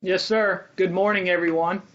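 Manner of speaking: muffled behind a mask; talking through a face mask. Real, not acted. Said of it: "so you can hear me through the mask".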